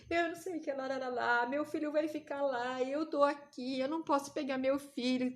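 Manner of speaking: fading mock wail, rattled off; half-hearted imitation of tearful complaining; retold crying. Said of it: "por que que você tá chorando".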